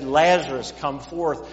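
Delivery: a loud, ringing call of the name; loud commanding call into the tomb. Acted. Jesus calls Lazarus from tomb.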